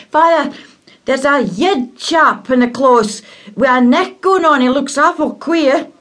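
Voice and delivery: put-on high, loud boy's voice, rushed at the start; a breathless lad calling his father; excited young boy.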